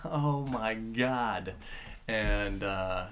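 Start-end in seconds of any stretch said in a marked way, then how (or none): 0.0-1.5 fist pump excitement. Retold or imitated. Fan who waited seventeen books, slow excited awe. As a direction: retell the moment a long-awaited villain finally shows up. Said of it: "that's one of those fist pump moments".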